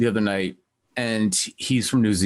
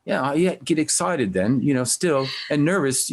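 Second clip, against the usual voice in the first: put-on light New Zealand accent, a bit higher; 5 semitones higher than usual. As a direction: quote him in a mild New Zealand accent. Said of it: "has a New Zealand accent".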